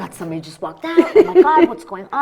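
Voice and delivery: laughing, high mock panic. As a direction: squeal the inner panic. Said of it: "in my head, of course, I was like".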